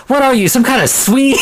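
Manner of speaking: high, incredulous mock question; exaggerated squeaky-high disbelief; funny line read. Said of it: "talking about funny line reads".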